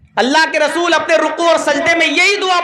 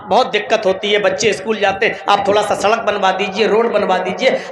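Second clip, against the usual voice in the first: a touch of a pleading villager, lower and earnest; humble petition; 5 semitones lower than usual. Retold or imitated. Villager humbly pleading before the MLA, lightly voiced. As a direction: plead politely with the official. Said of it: "आप अच्छी तरीके से कहेंगे ना".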